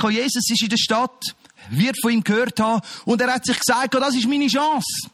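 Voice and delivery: fervent, full-voiced sermon delivery; preaching. Preacher telling the congregation Jesus is here today, fervent preaching.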